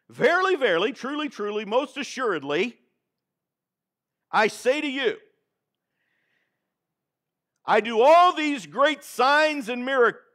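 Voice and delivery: a deliberately wrong quote; mock misquote of Jesus. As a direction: pretend to quote scripture wrongly, building to a proud finish. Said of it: "that's not what it says there".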